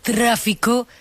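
very slow, portentous reporter impression; Gloria Serra. Guest retrying presenter impression, drawn-out reporter voice. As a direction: draw out each phrase for mock suspense. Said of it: "Me gusta imitarlo, pero lo hago muy mal".

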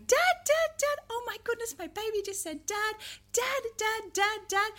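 high, thrilled parent's sing-song; excited parent. Shown as a demonstration. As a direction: cheer the baby's first word. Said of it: "supportive sounds from parents going".

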